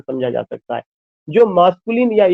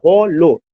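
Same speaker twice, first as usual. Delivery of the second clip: हो लो chopped into two beats; cut into syllables; slower than usual. Shown as a demonstration. Teacher showing the word cut, हो लो split apart. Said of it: "hollow cut रहा".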